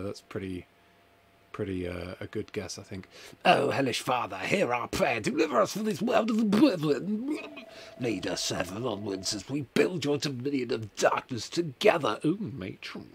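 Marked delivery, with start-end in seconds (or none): 3.4-13.1 solemn evil cult prayer; dark prayer. Acted. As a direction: pray to a dark god.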